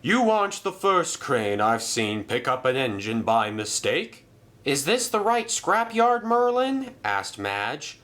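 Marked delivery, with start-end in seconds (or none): 0.0-4.3 altered voice, good-natured; lightly voiced amused engine. Merlin reassuring Reg the crane, lightly amused. 4.6-6.9 much higher question; curious Madge. Acted. Madge asking Merlin about the scrapyard, much higher.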